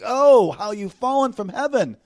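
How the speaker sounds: high, slow, drawn-out mournful cry; grieving lamentation. Shown as a demonstration. Preacher voicing the prophet's grief over the fallen one, lamentation. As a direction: lament it loudly, lingering on the OH. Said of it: "It's a grieving lamentation".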